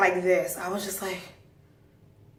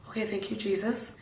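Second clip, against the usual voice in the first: soft, relieved prayer; quiet thanks; 9 dB quieter than usual. Retold or imitated. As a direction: murmur thanks to heaven. Relieved private prayer, retold.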